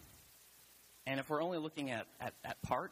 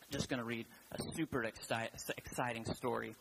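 dry, understated sarcasm; lightly tongue-in-cheek, without real enthusiasm; sarcastic. Real, not acted. Preacher introducing the book of Numbers, mildly sarcastic. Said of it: "you know I'm being sarcastic when I say".

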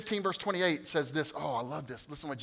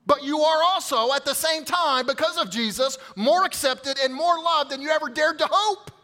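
louder and higher, soaring; preaching at full force; 8 semitones higher, 6 dB louder than usual. Acted. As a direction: lift it up to the whole room. Peak of the sermon.

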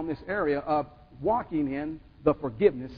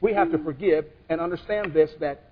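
slow solemn. Real, not acted. Closing exhortation.

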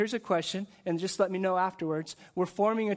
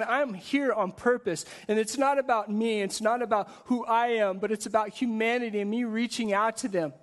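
earnest Jesus; 5 semitones higher than usual. Acted. Jesus speaking at his end.

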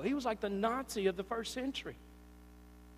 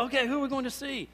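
excited; 3 semitones higher, faster than usual. Retold or imitated. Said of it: "I get all excited".

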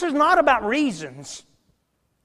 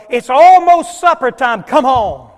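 calling across the house; 2 semitones higher, 11 dB louder than usual. Retold or imitated. Mama calling the family home for supper, loud call. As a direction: holler it like a mama calling kids in. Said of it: "shouts out across the house".

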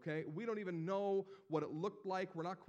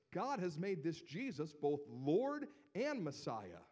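raised, measured scripture preaching; preaching Peter's sermon; 2 semitones higher than usual. Acted. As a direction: read it as Peter proclaiming. Reads Peter's sermon aloud.

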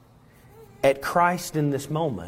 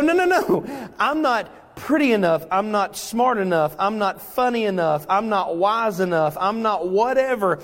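panicked believer; 5 semitones higher than usual. Acted. Believer lists own shortcomings.

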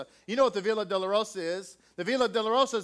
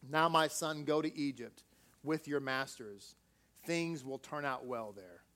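whispered; 6 semitones lower, 7 dB quieter than usual. A narrator's reading. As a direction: gently grieve over the son. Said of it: "Rachel said".

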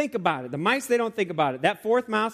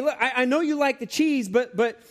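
higher, earnest urging; pleading mouse; 7 semitones higher, 3 dB louder than usual. Pretend. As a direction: coax a friend away from the cheese. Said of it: "And he might say".

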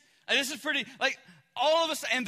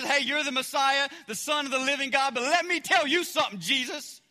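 louder, firm mock scolding; Peter reprimanding; 2 semitones higher, 3 dB louder than usual. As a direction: talk him down like a protective friend. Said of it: "Peter reprimanded Jesus".

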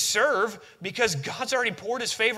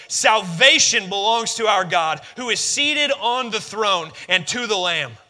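loud cry; 2 semitones higher, 5 dB louder than usual. Acted. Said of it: "cried out in a loud voice".

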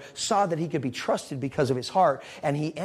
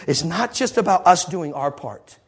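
preaching loud; 6 dB louder than usual. Real, not acted. Preaching climax.

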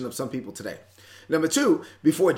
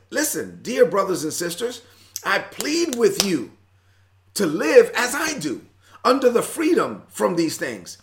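pleading apostle; 3 semitones higher, 4 dB louder than usual. Retold or imitated. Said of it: "He says".

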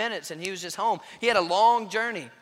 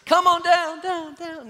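high, loud coaxing call; calling up loudly; 9 semitones higher, 7 dB louder, slower than usual. Retold or imitated. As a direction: beckon her down the slide. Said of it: "I'm just".

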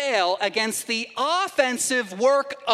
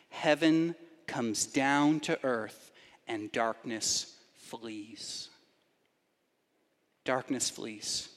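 hushed slow proclamation; 8 semitones lower, 7 dB quieter, slower than usual. Real, not acted.

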